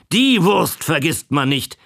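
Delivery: put-on mild exclaim from the old man; old sausage seller insists, mild exclaim. A narrator's reading. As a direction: lightly call it out. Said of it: "rief er".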